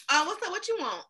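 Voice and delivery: casual curt service voice; African American accent. Retold or imitated. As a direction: imitate a bored cashier. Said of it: "they speak totally different".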